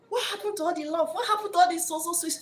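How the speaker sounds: mock-hurt lament; heartbroken girlfriend. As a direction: ask where the love went. Woman wonders where love went.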